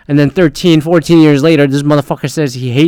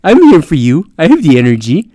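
put-on comforting kid; 3 semitones lower, 3 dB louder than usual. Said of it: "kid coming up and be like".

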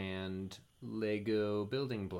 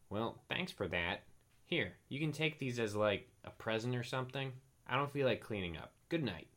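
terse; 4 semitones higher than usual. Acted. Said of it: "Gregory said tersely".

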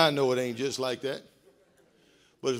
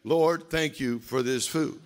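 mock lazy grace; 3 semitones lower, slower than usual. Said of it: "men pray".

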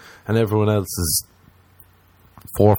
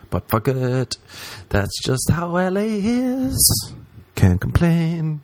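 resigned mock sigh; 8 semitones higher, slower than usual. Real, not acted. Resigned put-on voice.

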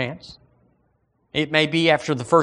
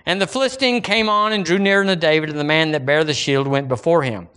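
raised-pitch pulpit reading; scripture reading; 2 semitones higher than usual. Acted. Preacher reading David and Goliath to church, declaimed scripture. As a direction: read the verse out to the congregation.

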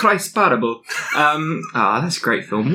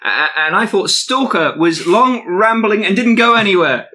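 falling man's parting shout; 5 semitones higher than usual. Acted. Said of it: "as he was falling, he went".

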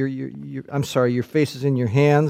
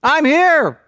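high, rising eager cry; crying out eagerly; 10 semitones higher, slower than usual. Acted. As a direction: answer the call with all your heart. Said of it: "he's crying out".

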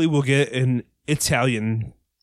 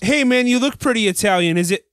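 calling out; 9 semitones higher, 5 dB louder than usual. Acted. Calling out to chat stranger.

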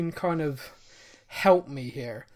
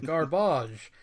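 put-on a light posh English accent; 5 semitones lower than usual. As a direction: savour it like a snooty English gent. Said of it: "I say it in a posh accent".

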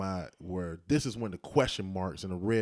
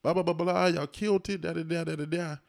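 friendly; 7 semitones higher than usual. Retold or imitated. Retelling friendly question to minister.

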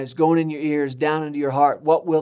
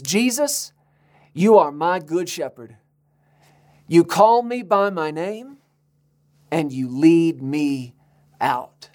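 sincere confession; slower than usual. Shown as a demonstration. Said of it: "you ought to say this out loud".

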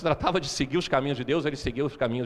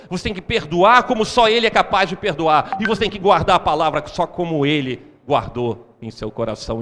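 louder and louder sermon build; rising preaching; 4 semitones higher, 6 dB louder than usual. Acted. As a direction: preach it with mounting force.

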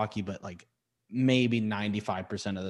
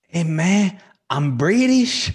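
put-on high, loud comic British accent; mock British accent; 8 semitones higher, 8 dB louder, slower than usual. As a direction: belt out a hammed-up British accent. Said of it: "he still has the British accent".

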